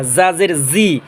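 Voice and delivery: "জা জের জি" as "za zer zi"; buzzing ZA. Shown as a demonstration. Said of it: "নিচে দাঁতের আগা".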